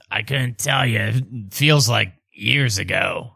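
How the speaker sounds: sighing, lightly put-on father; weary dad character. Ubo's dad answering how long ago, lightly put-on weariness.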